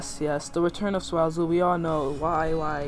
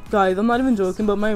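excited; 3 semitones higher, 8 dB louder than usual. Real, not acted. Excited reaction while gaming.

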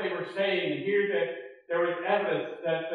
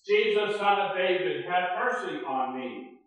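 mock shout; 2 semitones higher, 5 dB louder than usual. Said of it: "He began to shout out very loudly".

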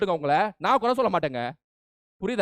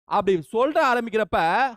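ordinary talk

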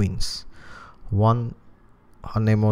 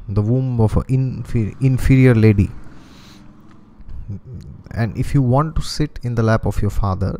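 put-on louder, haughty stepmother ordering a child away; scolding stepmother; 3 dB louder than usual. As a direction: push the boy off with cold contempt. Stepmother scolds child off father's lap.

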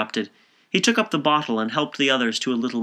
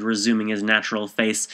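plain reading voice

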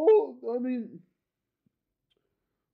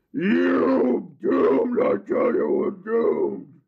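goblin voice; 3 semitones lower than usual. Pretend. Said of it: "these goblins are saying".

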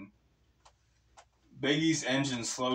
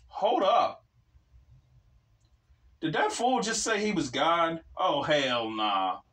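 surprised outburst; 5 semitones higher than usual. Acted. Shocked outburst at the claim.

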